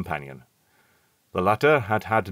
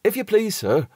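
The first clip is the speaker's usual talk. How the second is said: faltering; 13 semitones higher than usual. A narrator's reading. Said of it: "faltered Robert".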